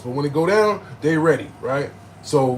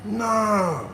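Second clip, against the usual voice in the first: higher, drawn-out disbelief; retold shock; 6 semitones higher than usual. Stabbed man in shock for minutes, stunned disbelief. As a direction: replay being stunned, stretching the words. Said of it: "I was really just in shock".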